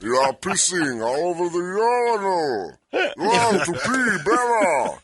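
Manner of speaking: put-on lightly French-accented Andre. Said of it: "more of a French accent".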